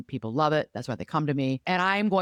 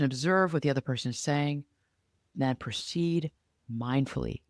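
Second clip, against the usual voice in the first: slow quiet walkthrough. Shown as a demonstration. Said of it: "Utilize stop".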